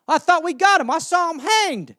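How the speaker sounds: high, loud put-on disbelief; mock shocked official. Official hears Saddam is still alive, high mock disbelief. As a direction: act stunned by the news. Acted dialogue, confused official.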